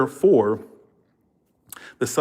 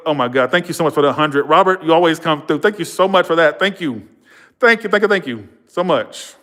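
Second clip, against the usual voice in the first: higher, delighted gush of gratitude; excited thanks; 4 semitones higher, 3 dB louder than usual. Real, not acted. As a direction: burst into thanks for a surprise gift. Surprise big donation during live talk.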